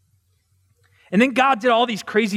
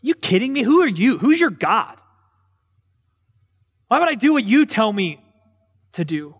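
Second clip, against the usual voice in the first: mocking Pharaoh; 2 semitones higher than usual. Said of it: "Pharaoh laughs at him".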